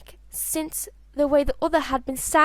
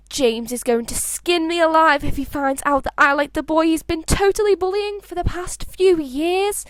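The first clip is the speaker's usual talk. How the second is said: higher, louder, tumbling worry; panicked rush; 4 semitones higher, 4 dB louder than usual. Acted. Albus fearing his brother finds out, panicked rush. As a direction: dread spilling out, voice pitched up and louder. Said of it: "Albus thought".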